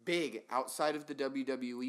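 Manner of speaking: with hiccups. Real, not acted. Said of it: "Excuse me for the hiccups".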